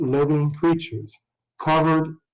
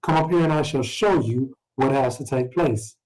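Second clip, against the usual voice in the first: measured scripture reading voice. Acted. Teacher reading Revelation aloud, measured scripture voice. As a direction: read the verses out to the class.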